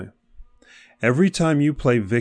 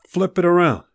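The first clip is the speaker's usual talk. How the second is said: emphatic urging; 6 semitones higher, 4 dB louder than usual. Real, not acted. Urging listeners to reframe.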